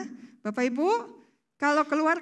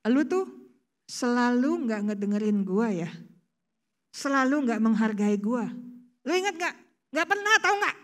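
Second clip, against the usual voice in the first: mock accusing spouse. Acted spouse argument.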